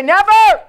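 "Never" punched high and loud; stress on never. Shown as a demonstration. Preacher leading the call, stressed "Never". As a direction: hit "Never" hard and high. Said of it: "Look at your neighbor and say".

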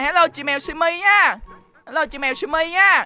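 tag. Pretend. Calls a greeting to game cat.

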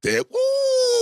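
loud, high woo; excited whoop. Real, not acted. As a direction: whoop with delight. Excited reaction to Sandlot.

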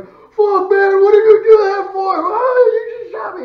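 high, loud mock wail of pain; pained outraged yell. Soldier shot in the foot protesting to shooter, hammed-up wailing yell. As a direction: cry out as if just wounded, hammed up.

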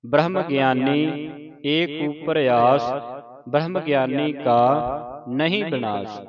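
slow, drawn-out line endings; scripture recitation. Shown as a demonstration. Teacher recites Sukhmani Sahib for the congregation, slow measured recitation. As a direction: recite slowly, holding the long vowels.

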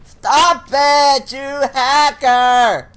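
furious, dragged-out accusation; angry shout. Real, not acted. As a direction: yell at the hacker. Yelling at opponent.

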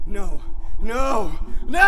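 rising to a long scream; building screams of dread; terrified cry. Acted. Victim cries out as clown returns.

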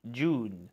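جون with a long drawn oo. Shown as a demonstration. Teacher contrasts the long oo with the short form. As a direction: stretch the oo in جون. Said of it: "الاي بتشد اليو".

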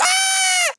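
sudden very high loud scream; real startled scream. Real, not acted. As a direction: shriek in fright. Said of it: "bağırdım için özür dilerim".

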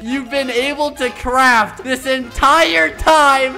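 high laughing shout; cracking up while calling it; laughing hard. Real, not acted. Caster laughing at player's blunder.

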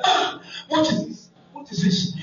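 high, breathy astonished cry; shocked wife. Acted. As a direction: gasp it out in disbelief.

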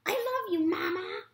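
high, breathy loving cry; tender gosling. Acted. Gosling tells his robot mother he loves her. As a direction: hug her with the words.

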